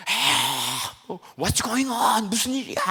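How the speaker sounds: hammed-up tearful panic; imitated crying. Preacher imitating passengers crying on a shaking plane, tearful wail. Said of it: "막 울면서".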